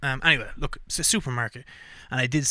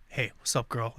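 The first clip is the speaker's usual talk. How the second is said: mock pickup line; 4 semitones lower, 6 dB quieter than usual. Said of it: "sup kind of ladies".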